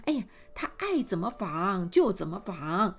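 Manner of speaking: queen saying 就 with a lifting, easygoing rise; indulgent queen. Acted. Queen dismissing the mother's worry, breezy and indulgent. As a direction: let her spin as she likes, breezy. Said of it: "这皇后一听".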